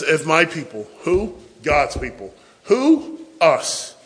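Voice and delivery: loud, rising questioning call; call and response. Real, not acted. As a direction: challenge the congregation. Preacher calls and answers.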